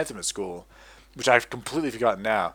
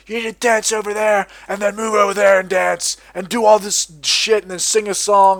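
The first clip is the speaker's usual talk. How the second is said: higher, louder mock-bossy nagging; nagging adult; 7 semitones higher, 7 dB louder than usual. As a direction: imitate the scolding grown-ups. Quoting adults nagging him.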